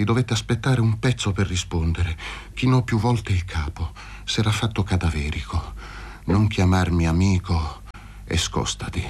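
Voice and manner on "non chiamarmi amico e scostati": spent after coughing. Acted. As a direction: push him away with failing breath. Exhausted sick man after coughing fit.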